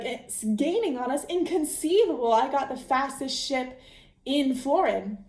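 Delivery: a touch of outrage, pitch jumping up on inconceivable; lightly voiced haughty schemer; hammed-up disbelief in the Sicilian's voice; mock indignant Sicilian. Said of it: "the Sicilian is like".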